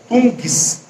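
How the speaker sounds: TUNGS alone, said as tun-guis; sounding like two syllables. Shown as a demonstration. Teacher asking if it seems two syllables, tungs sounded out. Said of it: "Não dá a impressão de ser duas sílabas?".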